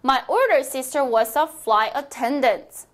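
very slow, clear dictation pace; teacher modelling a sentence slowly; slow model reading. Shown as a demonstration. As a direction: spell it out slowly for learners. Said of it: "model sentence for repeating".

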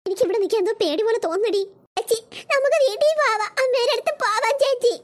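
put-on whimpering child wanting home; scared, on the verge of crying; tearful fear. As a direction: plead tearfully to a big sister. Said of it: "ഇത് കരയല്ലേ".

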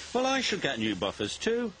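high-pitched complaint; complaining. A narrator's reading. Bill feels left out beside his twin, complaining. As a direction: protest like a put-out twin. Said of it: "Bill complained".

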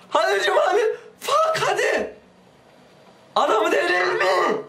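very high, strained laughing whine; half sob, half laugh; laugh-crying. Real, not acted. Gamer cracking up at his character, laughing and half crying.

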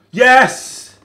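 loud, high cheer; triumphant yes. Real, not acted. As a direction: punch the air with it. Penalty scored.

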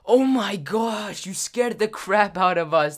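high, loud mock outrage; drawn-out, high-pitched disbelief; shocked outburst. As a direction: imitate friends exclaiming after a scare. Shocked friends confront prankster.

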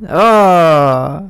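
long drawn-out "oh"; acted groan at a taunt; embittered groan. A narrator's reading. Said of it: "Al escuchar eso se amarga". (quejido amargado)

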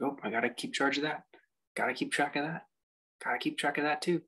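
mock the mind ticking off its list, each item lifting; anxious conscious mind. Teacher voicing the mind that won't forget, mildly fretful chatter. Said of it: "You can feel the conscious mind".

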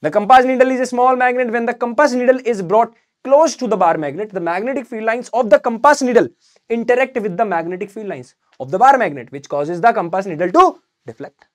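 slow, even answer read out for students to copy; slow dictation. Shown as a demonstration. Teacher reading the written answer slowly for students to copy. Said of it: "मैं ये करके लाया अभी तुम्हारे लिए, देख लो".

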